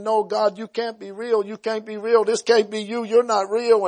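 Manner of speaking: a hint of a young man pleading in disbelief; mildly acted inner struggle; retold denial. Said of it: "And I kept saying".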